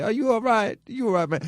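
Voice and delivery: high mocking baby talk; mock concern. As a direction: talk down to him like a toddler. Mocking a stressed college student.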